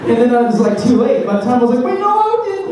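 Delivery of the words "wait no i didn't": high, breaking through laughter; laughing protest. Retold or imitated. Driver protesting to the woman, laughing high. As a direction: try to deny it but crack up.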